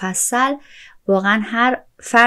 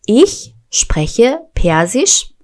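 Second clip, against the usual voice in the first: slow, careful German; slow model sentence; 3 semitones higher, 4 dB louder, much slower than usual. Shown as a demonstration. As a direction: say it slowly for learners. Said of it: "German model phrase, slow".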